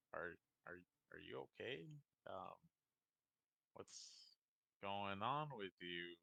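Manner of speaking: gentle puzzled old man, lightly voiced; lightly voiced old man, not concerned, just puzzled. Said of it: "In an old, you know, old man voice".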